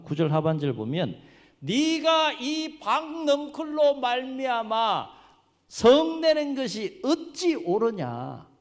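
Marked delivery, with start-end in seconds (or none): 1.6-8.5 slow, high, loud solemn proclamation; God questioning Jonah. Retold or imitated. God challenges Jonah's anger over the plant, slow ringing rebuke. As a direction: stretch each word into a stern divine question. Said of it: "하나님께서 요나에게 뭐라고 질문하십니까".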